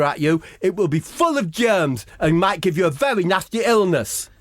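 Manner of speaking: mock villain threat.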